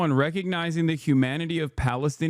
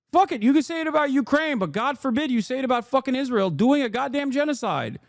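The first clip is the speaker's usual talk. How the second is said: angry rant; 6 semitones higher, faster than usual. Real, not acted. Ranting at critics, high and furious. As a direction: spit out the words in outrage.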